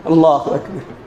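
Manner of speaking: low collective shout of اللہ اکبر; the crowd answers together; crowd takbir. Real, not acted. Congregation answers the preacher with a low takbir.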